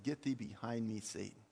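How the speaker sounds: low, understated rebuke, dropping away softly; Jesus quietly rebuking. Retold or imitated. Jesus turns around to answer Peter, low subdued rebuke. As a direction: say the command low, letting the last word fall away. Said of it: "Jesus turned around and said".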